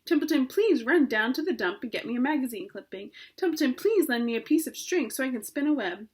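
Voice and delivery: sarcastic rat grumbling, whining; disgusted. Acted. Rat mocking requests made of him, disgusted. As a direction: sneer it like a put-upon rat. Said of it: "he said in disgust".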